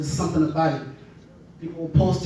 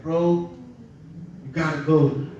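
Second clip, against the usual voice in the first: put-on lower, easy Bahamian island accent; 3 semitones lower, 4 dB quieter than usual. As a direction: talk like the Bahamian boys back home. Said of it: "with an accent".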